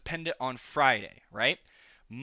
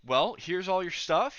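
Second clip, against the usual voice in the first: excited teacher; 5 semitones higher than usual. Retold or imitated. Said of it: "he starts off really excited".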